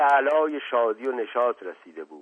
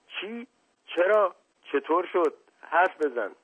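high, startled short questions; startled crowd demanding news; shocked questioning; 9 semitones higher than usual. Acted. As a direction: fire off alarmed questions, pitch way up.

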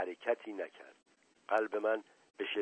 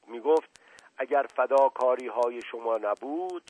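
same strange voice; 3 semitones higher, 7 dB louder than usual. Acted. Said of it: "با همان لحن و صدا ادامه داد".

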